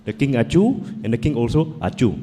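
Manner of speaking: put-on a light Indian accent telling a fable; lightly voiced Indian storyteller accent; gentle Indian accent, once upon a time. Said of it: "I can tell in an Indian accent".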